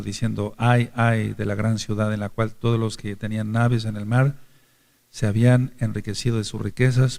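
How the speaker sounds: solemn reading of the Bible passage; scripture reading. Acted. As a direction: read the verses out with weight. Reads Apocalipsis 18 aloud. (lectura solemne de las Escrituras)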